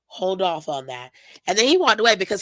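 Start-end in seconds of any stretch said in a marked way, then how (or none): 0.1-1.1 soft, rushed mumbling brush-off; flustered brush-off. Retold or imitated. Finn stalling Liv while he pulls himself together, soft fast brush-off. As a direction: hurry it out under your breath, rattled. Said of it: "And he was like".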